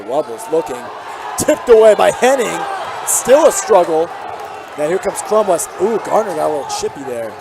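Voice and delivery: steady broadcast call, lifting on each drive; live play-by-play. Real, not acted. Commentator calling the game for listeners at home, play-by-play.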